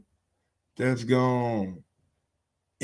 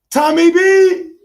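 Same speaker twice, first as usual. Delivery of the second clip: a very high, loud, slow hype call; stretched-out high shout of the name; excited shout; 12 dB louder, slower than usual. Real, not acted. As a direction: yell his name out like a cheer. Hyping Tom Brady weekend.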